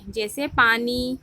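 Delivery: پانی said slowly with the final ی stretched; teacher stretches the ی of پانی; drawn-out example. Shown as a demonstration. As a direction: stretch the end of پانی for the class. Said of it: "جس یا کی آواز کھینچ کر نکلتی ہے".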